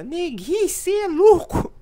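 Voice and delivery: squeaky little voice. Retold or imitated. Brothers teasing each other in a loud squeaky voice. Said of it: "A gente ficou nessa".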